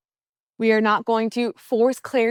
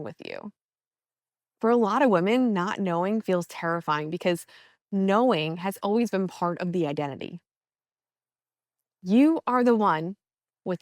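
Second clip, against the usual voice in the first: calm, measured meditation voice with long pauses; guided meditation; 2 semitones lower, 4 dB quieter than usual. Acted. Coach easing listeners into a mindful walk, guided meditation. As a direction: guide them gently through breath and steps.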